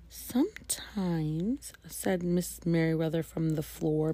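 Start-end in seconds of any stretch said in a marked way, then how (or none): 0.1-1.7 slow, strained whisper. Acted. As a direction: whisper it from the floor in pain. Librarian hurt on the floor.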